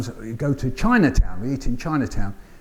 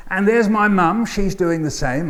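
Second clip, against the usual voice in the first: higher, lively storytelling lift; poem performance; 5 semitones higher than usual. Acted. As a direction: announce each family member brightly. Performing the hot potato poem.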